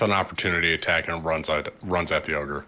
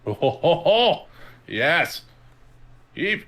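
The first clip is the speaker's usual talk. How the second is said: excited cheer; 9 semitones higher than usual. Real, not acted. Cheering a big damage roll.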